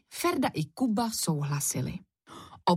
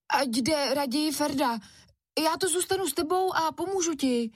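put-on higher boyish voice making excuses; wheedling excuse; 9 semitones higher than usual. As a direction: try to wriggle out of the errand. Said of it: "zkoušel se vymluvit Kuba".

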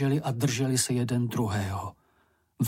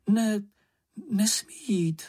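higher-pitched urgent objection; crying out in alarm; 8 semitones higher than usual. A narrator's reading. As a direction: exclaim it as a higher, airy protest. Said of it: "zvolala slečna Ferka".

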